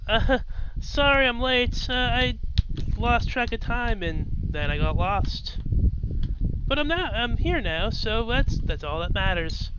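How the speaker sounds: breathless preppy girl, lightly voiced; chirpy late-arriving schoolgirl; bubbly sorority girl. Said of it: "preppy girl kind of vibe".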